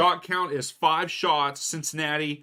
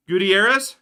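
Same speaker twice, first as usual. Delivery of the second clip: excited call; 6 semitones higher, 7 dB louder than usual. Real, not acted. Attack underway.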